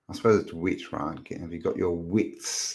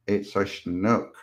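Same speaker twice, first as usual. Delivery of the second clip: slow, poorly faked Canadian accent; bad Canadian accent; slower than usual. Shown as a demonstration. Streamer trying out a viewer's word, bad Canadian accent. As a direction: draw it out in a hammy attempt at Canadian. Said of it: "That's the worst Canadian accent ever".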